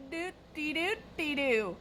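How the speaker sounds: high, slow, over-enunciated nonsense syllables; retold pointed correction; defensive correction. Cashier correcting the mishearing.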